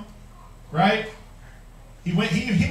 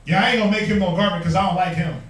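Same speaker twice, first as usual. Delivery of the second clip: outlandish refusal; 2 semitones lower, 5 dB louder, faster than usual. Retold or imitated. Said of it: "blatant and outlandish".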